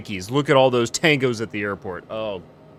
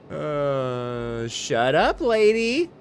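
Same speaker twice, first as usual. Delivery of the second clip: mock retort; much slower than usual. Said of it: "And I'd be like".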